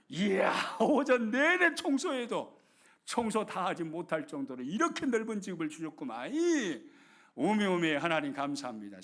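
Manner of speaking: grateful joy. Acted. Wife thanking God for large house, amazed gratitude. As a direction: marvel at the big house. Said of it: "생각을 딱 바꿔버린 거예요".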